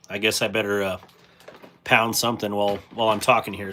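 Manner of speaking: talking while munching granola; crunching granola. Real, not acted. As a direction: chew and talk at once. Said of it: "if you hear me crunching and munching".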